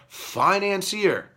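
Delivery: slow sarcastic Financier, drawn out and dropping; mocking the word. Repeating the media's label in slow scorn. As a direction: sneer the word Financier slowly. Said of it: "financier, they say".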